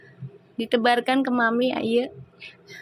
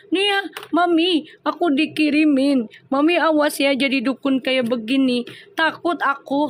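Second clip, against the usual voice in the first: half-hearted fearful whine to mom; mock scared plea; 3 semitones higher than usual. Host imitating Hani's scared chat to Mami, mock frightened.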